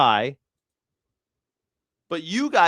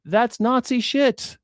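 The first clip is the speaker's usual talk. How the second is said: heated rant; 6 semitones higher than usual. Real, not acted. Angry rant about war.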